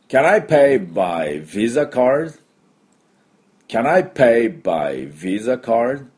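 slow, evenly spaced practice model; slow model phrase. Shown as a demonstration. Teacher leading learners through the card question, slow model phrase. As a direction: say it slowly with a rising finish. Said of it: "では行きましょう".

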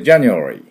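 January with the e after nu barely touched, a light glide; just a hint of the e in January; January with half vowel. Shown as a demonstration. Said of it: "絵のところは私半母音でちょっとあっていうだけで".

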